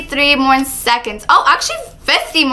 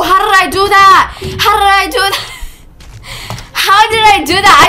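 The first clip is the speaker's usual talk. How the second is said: astonished; 5 semitones higher, 3 dB louder than usual. Real, not acted. Astonished at own feat.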